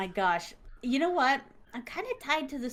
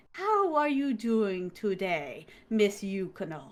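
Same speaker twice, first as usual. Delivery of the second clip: imitated doctor; 3 semitones lower, slower than usual. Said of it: "his accent definitely is foreign".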